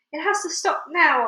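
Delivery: yell. Acted. Aunt panicking at the peach, yell. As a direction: yell it at the tree. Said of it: "Aunt Spiker yelled".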